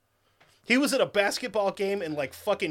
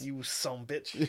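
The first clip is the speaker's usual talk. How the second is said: gruff sheriff voice; 5 semitones lower, 8 dB quieter, much slower than usual. Retold or imitated. Quoting Sheriff Justice.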